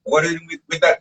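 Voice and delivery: light imitation of the chef; boss questioning. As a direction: press her like the suspicious boss.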